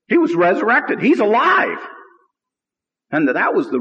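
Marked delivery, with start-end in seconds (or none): 0.1-1.8 triumphant proclamation. Real, not acted. Preaching the resurrection.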